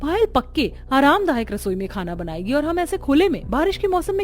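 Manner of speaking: rising protest about unfair treatment; daughter-in-law protesting discrimination, voice rising; angry protest. Acted. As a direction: protest to the mother-in-law, climbing high. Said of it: "Sangeeta गुस्से में".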